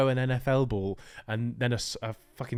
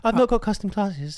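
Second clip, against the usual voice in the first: put-on teenage gamer voice; 7 semitones higher, 6 dB louder than usual. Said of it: "they would guess that you're, like, sixteen".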